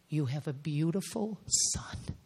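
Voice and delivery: soft tender whisper. Real, not acted. Telling her ex-husband about his son, in a tender whisper. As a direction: breathe it gently, almost no voice.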